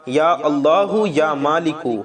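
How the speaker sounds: slow, drawn-out invocation of God's names; slow prayerful invocation; dhikr recitation. Shown as a demonstration. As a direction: chant the names slowly and devoutly. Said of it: "یہ ہو گیا تین بار".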